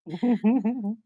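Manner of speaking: put-on old man voice. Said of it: "that old man voice".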